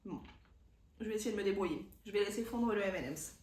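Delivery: talking around a melting candy; mouth full. Real, not acted. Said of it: "j'aurais pas dû mettre ça dans ma bouche".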